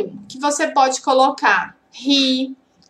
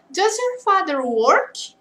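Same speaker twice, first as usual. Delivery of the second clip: slow model question; 3 semitones higher, slower than usual. Shown as a demonstration. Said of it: "seu pai".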